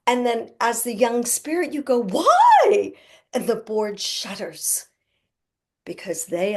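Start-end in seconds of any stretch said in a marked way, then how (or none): 2.0-2.9 high, loud, startled question; a puzzled child protesting; surprised why. Acted. Young spirit questioning the board.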